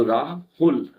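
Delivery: "राहुल" slowly split into रा and हुल; syllable stress demo. Shown as a demonstration. Teacher showing students syllables in a name, stressed deliberately. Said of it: "उसमें ज्यादा stress दे रहा हूँ".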